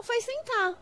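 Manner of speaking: teacher playing sentence game with children, sing-song; playful. Shown as a demonstration. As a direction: make it a game for kids.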